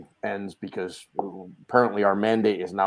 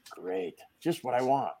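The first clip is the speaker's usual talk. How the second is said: softer, slow, sarcastic grumble; pissed off; 7 dB quieter than usual. Retold or imitated. Husband told of wife's work dinner, pissed-off sarcasm. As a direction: unenthusiastic mock delight. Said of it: "pissed off as can be".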